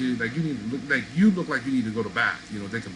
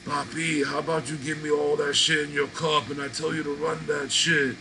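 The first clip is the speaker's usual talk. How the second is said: mock stickup threat; 3 semitones higher than usual.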